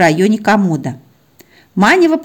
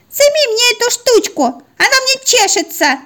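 very high squeaky little dog voice; a tiny puppy whining to be freed. Acted. Little dog begs owner to remove collar, high squeaky whine.

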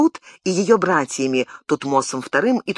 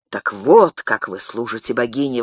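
indignant exclamation; 4 semitones lower than usual. Acted. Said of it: "воскликнул он".

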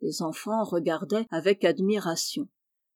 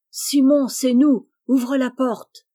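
loud, raised-pitch calling; shouted call; 4 semitones higher, 8 dB louder, slower than usual. A narrator's reading. Jean calls his brother to open up, shouting. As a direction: shout through a shut door to be let in. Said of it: "cria Jean".

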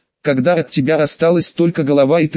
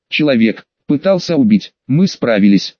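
gurgling voice. Acted. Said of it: "снова заговорил Нав".

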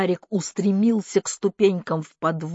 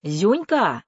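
raised-voice call from upstairs; mild shout of a summoning aunt; 3 semitones higher, 4 dB louder than usual. A narrator's reading. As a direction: call the name to someone downstairs. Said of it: "крикнула со второго этажа тётя Лида".

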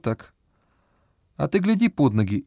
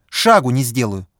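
hysterical yell; 5 dB louder than usual. A narrator's reading. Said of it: "истерически закричала женщина".

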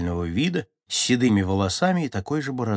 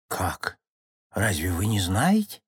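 put-on very old man. A narrator's reading. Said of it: "с тихой усмешкой прошамкал старик".

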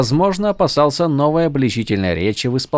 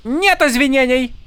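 high, haughty refusal with нет stressed; mock Horneater accent; 13 semitones higher than usual. A narrator's reading. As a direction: announce it grandly. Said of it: "объявила Шалан".

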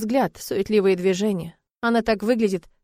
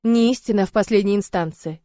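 firm; 6 dB louder than usual. Acted. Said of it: "твёрдо отзывается Мал".

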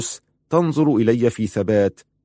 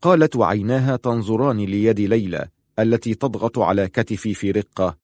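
ordinary delivery, nothing marked

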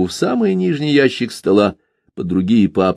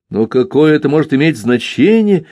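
indignant son jumping up from the chair; 6 semitones higher than usual. A narrator's reading. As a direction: protest the point, heated. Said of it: "возмутился".

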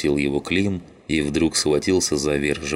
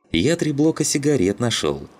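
pitched up high, bright with joy at his find; proud and delighted, voice lifted high; beaming happily; 9 semitones higher than usual. A narrator's reading. Shum proudly tells his mates about the cigarettes, beaming. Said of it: "засиял счастливой улыбкой Шум".

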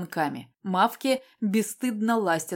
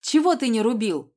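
sharp, angry, somewhat louder yell; angry shout; 4 semitones higher, 4 dB louder than usual. Acted. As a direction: snap it out in anger. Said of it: "прокричала я зло".

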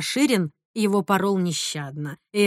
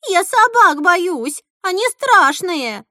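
frightened; 9 semitones higher, 6 dB louder, slower than usual. A narrator's reading. Scared girl confesses.

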